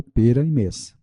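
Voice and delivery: pera and mês with closed e; closed vowels. Shown as a demonstration. Teacher showing the circumflex, pera and mês with closed e. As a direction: say pera and mês with a tight ê sound. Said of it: "som fechado".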